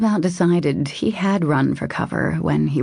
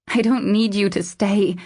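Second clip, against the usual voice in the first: high-pitched woman's protest; 6 semitones higher than usual. A narrator's reading. Woman insisting she needs no company, protesting. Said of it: "she protested".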